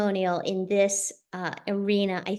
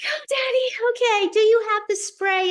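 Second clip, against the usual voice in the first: coaxing Daddy; 11 semitones higher, 5 dB louder than usual. Retold or imitated. Urging her father on phone.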